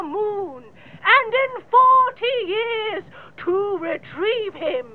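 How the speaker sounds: rousing proclamation. Acted. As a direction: build to a stirring royal climax. Rousing climax of the speech.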